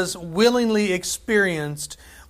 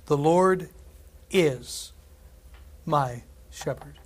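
The Lord is my shepherd, slow, each word weighted, my stressed; emphatic reading; much slower than usual. Shown as a demonstration. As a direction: lay weight on every word, slowest on my shepherd. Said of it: "I love how emphatic this is".

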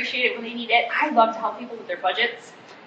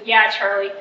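slow, lightly mocking sarcasm; a mild hint of teenage sarcasm; sarcastic; slower than usual. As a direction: drag it out with dry sarcasm. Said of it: "just full of sarcasm".

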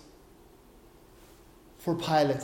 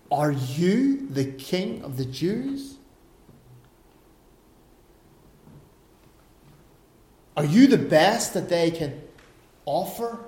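sarcastic question; 2 semitones lower than usual. Retold or imitated. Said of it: "Can you hear the sarcasm?".

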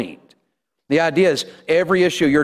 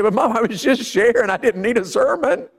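imitating whiny daughter; 7 semitones higher than usual. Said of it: "she does that to you all the time".

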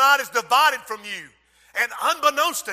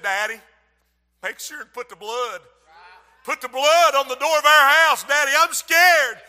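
put-on scared child; 2 semitones higher, 3 dB louder than usual. Frightened boy voiced in story.

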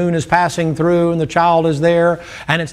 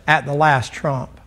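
mocking the preacher; 3 semitones lower, slower than usual. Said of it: "And that guy says".

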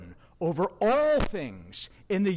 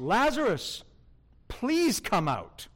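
polite request; 2 semitones higher than usual. Shown as a demonstration. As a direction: ask him nicely, not command.

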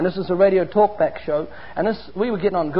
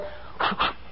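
imitated cane strokes, short and unvoiced; quick cane swishes; 9 dB quieter than usual. Father showing how he caned his son, quick swish sounds. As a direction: make little quick hard whipping noises. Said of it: "like that, little quick hard ones".

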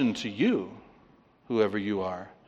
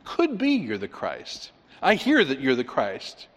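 tentative. Acted. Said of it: "He doesn't say".

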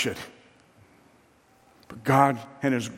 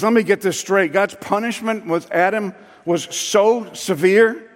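sarcastic; 6 semitones higher, 4 dB louder than usual. Retold or imitated. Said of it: "all the sarcasm that he could muster".

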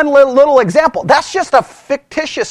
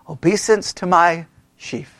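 whispered punchline; 4 semitones lower, 5 dB quieter than usual. Acted. Joseph telling his brothers the dream, whispered. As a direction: drop to a whisper after a pause.

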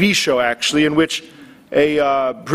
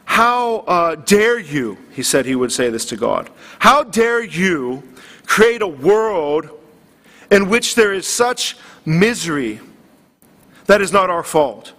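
mock indignation, slow and drawn out on how dare you; preacher imitating Stephen Fry scolding God, mildly indignant. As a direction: quote the atheist's outrage, measured and deliberate. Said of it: "he was indignant in the video".

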